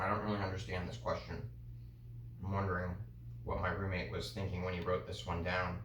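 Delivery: talking with the mouth held open; words blurred by an open mouth; mouth propped open. Real, not acted. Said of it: "talk with my mouth open".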